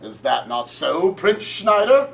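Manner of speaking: hammy stage actor. Acted. Hammy stage play as king.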